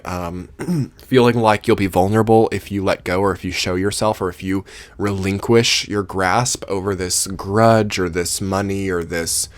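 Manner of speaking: hoarse, strained voice; losing voice. Real, not acted. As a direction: voice giving out. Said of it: "I'm starting to lose my voice".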